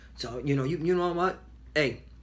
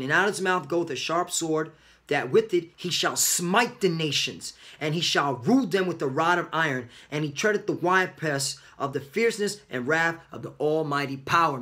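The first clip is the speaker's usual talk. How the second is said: scripture reading. Acted. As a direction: proclaim the verse like a preacher. Reads scripture, louder and slower.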